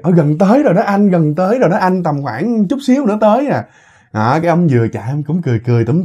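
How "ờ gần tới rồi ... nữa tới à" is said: put-on slightly higher, lilting girl's reply; a hint of a young woman's voice, pitched up; lightly voiced girl passenger. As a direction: lightly play a girl answering her driver. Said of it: "Cái nhỏ kia bắt đầu là nói".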